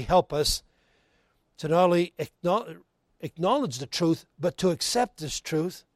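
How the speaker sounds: pastor's subdued prayer voice. Real, not acted. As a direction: lead the congregation gently in prayer.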